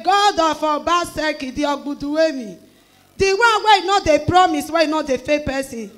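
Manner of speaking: calling on God at the top of her voice; loud fervent prayer. Retold or imitated. Mother crying out to God over her dying daughter, loud fervent prayer. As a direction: pray it out loud and urgent.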